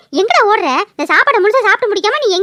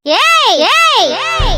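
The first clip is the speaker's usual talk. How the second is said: sharp high-pitched "hey" calls; warning shout; 5 semitones higher, much slower than usual. Acted. Wife stopping husband touching his mother, warning shout. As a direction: shout to stop him at once. Warning son off the injured woman.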